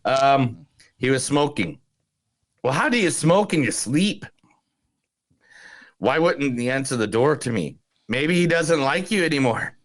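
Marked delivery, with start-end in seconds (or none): 2.6-9.8 a light Irish lilt on the film quote; Irish accent. Retold or imitated. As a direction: read the line like an Irish villager. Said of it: "Thank you for the Irish accent".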